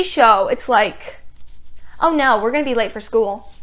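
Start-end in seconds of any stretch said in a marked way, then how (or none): 2.0-3.5 mocking quote. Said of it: "not just a shrug it off like".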